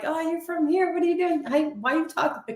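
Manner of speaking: lightly mimicked high-pitched questioning; imitated nosy questioners. Mocking everyone who asks about the accent, imitated questioning.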